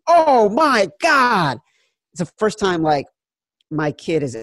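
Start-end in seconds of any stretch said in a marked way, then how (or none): 0.1-1.6 loud, slow, anguished scream. Retold or imitated. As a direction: howl it out as the kick misses. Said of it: "and I screamed".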